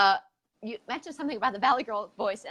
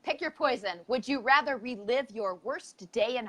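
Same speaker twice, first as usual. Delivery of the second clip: game show host; 3 semitones higher than usual. Acted. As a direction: announce it like a quiz host.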